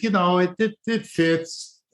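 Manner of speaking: talking through hiccups; hiccuping between words. Real, not acted. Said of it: "Excuse me, I got the hiccups".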